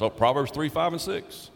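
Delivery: chirpy life-verse answer. Retold or imitated. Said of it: "I've heard a lot of people say".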